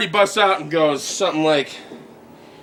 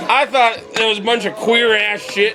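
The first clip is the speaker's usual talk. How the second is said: lightly voiced truck lover, higher; a hint of a brash truck guy; pickup truck guy; 4 semitones higher than usual. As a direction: play a boastful pickup driver, pitched up. Acted pickup-truck interviewee in critics corner.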